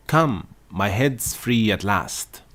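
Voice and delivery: delighted. A narrator's reading. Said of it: "said Alice in a tone of delight".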